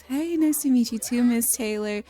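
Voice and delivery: high, put-on politeness; putting on a front. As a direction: greet her with exaggerated fake niceness. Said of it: "she's putting on the biggest front".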